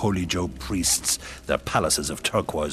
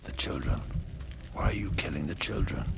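muttering; 4 dB quieter than usual. Acted. Grieving queen questions the killing of children, muttering. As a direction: mutter it softly, barely voiced. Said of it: "she's muttering now".

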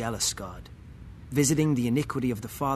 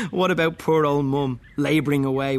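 indignant; 3 semitones higher, 6 dB louder than usual. Real, not acted. Indignant outburst.

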